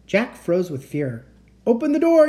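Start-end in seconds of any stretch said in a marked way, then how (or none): 1.6-2.3 high, loud barked order; yelling. Acted. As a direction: yell the command over the roar. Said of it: "yelled Teddy".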